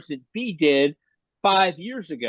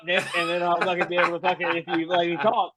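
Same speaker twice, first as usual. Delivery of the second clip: chewing tobacco. Real, not acted. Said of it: "I'm spitting it out".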